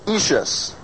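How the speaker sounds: ishus said short and quick. Shown as a demonstration. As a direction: clip the ishus fast. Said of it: "the ishus goes quickly".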